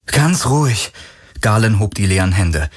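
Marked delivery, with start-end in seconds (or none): 0.1-0.9 soothing. Acted. Man soothes a frightened woman.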